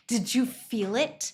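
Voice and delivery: drawn-out, playful, restrained taunt; slow teasing question. Pretend. Playful boast, repeats it louder.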